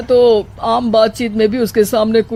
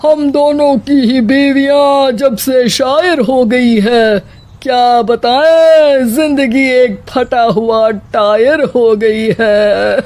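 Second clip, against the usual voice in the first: slow, louder, sorrowful recital; hammed-up sorrowful couplet; mournful lament; 2 semitones higher, 3 dB louder, slower than usual. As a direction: lament the life of a ruined tyre. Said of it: "दुखी स्वर में कहते हैं".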